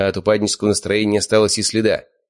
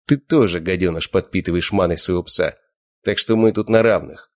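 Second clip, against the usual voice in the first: mocking smirk. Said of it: "Я усмехнулся".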